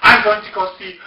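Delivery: loud, high, drawn-out imitation of indignation; very indignant. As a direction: declare it defiantly, acting her out. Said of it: "then she became very indignant".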